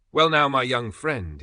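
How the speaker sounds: a hint of a sly older man, slow; lightly voiced, drawn-out greeting; knowing Italian man. A narrator's reading. Mangiarotti greeting the young Englishman, lightly voiced and slow.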